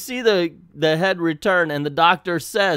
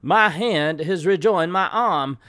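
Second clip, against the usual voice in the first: mild mock yell, slightly raised; raised comic-book exclamation; retold yell; 4 semitones higher, 4 dB louder, slower than usual. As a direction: declaim it like a magic word. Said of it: "then he yells".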